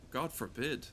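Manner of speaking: ordinary delivery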